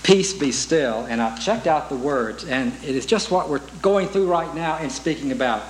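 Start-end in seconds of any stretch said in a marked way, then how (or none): 0.0-1.1 "Peace Be Still" drawn out slowly; song title, slow. Shown as a demonstration. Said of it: "we used to sing".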